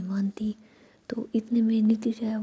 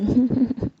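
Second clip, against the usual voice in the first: short laugh; 3 semitones higher, 8 dB louder than usual. Acted. Laugh during teasing banter.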